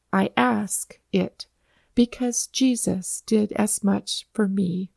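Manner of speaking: put-on soft, slow old man's answer; quiet and slow. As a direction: say it gently and unhurried. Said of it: "the old man's brief answer".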